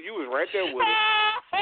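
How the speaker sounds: high, laughing through the words; can't stop laughing while saying it. Real, not acted. Teasing his friend over the hotel night, laughing hard.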